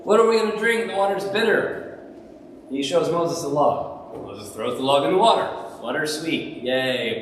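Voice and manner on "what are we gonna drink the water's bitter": grumbling people. Retold or imitated. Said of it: "They grumbled".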